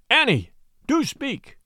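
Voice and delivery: high, slow, pleading call; drawn-out plea, pitched well up; anxious plea. A narrator's reading. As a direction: beg someone unconscious to respond. Rider pleads with unconscious young woman.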